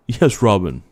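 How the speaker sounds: lightly done radio-host voice, a hint of Stern; a loose nod to a shock-jock host answering his sidekick; Howard Stern impression. Host answering his sidekick on air, a light Howard Stern impression. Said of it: "trying to sound like Howard Stern".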